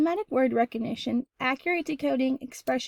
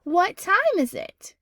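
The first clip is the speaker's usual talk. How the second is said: higher, slow asking read; slow, higher question demo; 6 semitones higher, 4 dB louder, slower than usual. Shown as a demonstration. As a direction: ask it clearly for the class. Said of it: "That would be a question mark".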